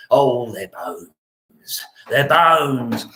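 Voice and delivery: slow drawn-out mock moan; mock lament. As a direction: stretch the oh like a fake lament.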